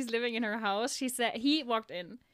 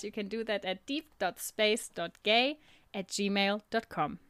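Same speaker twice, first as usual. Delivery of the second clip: slow, measured announcer read; anchor voice; 2 semitones lower than usual. Shown as a demonstration. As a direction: read the address like a news anchor. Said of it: "it's like my anchor voice".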